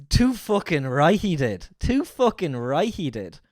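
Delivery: drawn-out Geordie attempt; Geordie accent. Shown as a demonstration. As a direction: stretch it slowly into Geordie. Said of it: "a phrase to get into it".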